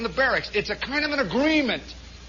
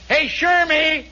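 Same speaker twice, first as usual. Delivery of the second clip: high, loud goofy tease; put-on barracks wit, pitched up; jeering taunt; 7 semitones higher, 4 dB louder than usual. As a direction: heckle your buddy about his mustache.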